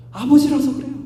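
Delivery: 아버지라서 hit high and loud, falling. Acted. Pastor repeats to congregation, now proclaimed loudly. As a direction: proclaim 아버지라서 with full force.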